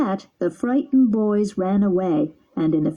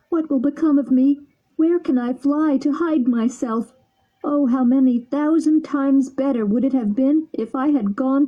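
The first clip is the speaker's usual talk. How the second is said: weeping bitterly; 5 semitones higher than usual. Acted. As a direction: plead with his friend through tears. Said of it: "weeping bitterly".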